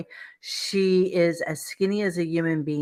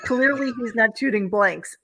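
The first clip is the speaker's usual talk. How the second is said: laughing; 6 semitones higher than usual. Real, not acted. Joke lands, host cracks up.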